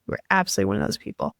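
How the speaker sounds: fast whispered echo of a compliment; hushed whisper. Real, not acted. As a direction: breathe it again quickly as an aside. Repeated compliment, second take hushed.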